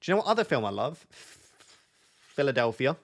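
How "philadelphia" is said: slow. Acted. Drawn-out film title.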